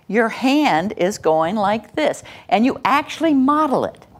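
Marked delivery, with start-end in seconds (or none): 0.1-2.2 gentle noticing. Shown as a demonstration. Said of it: "you might say".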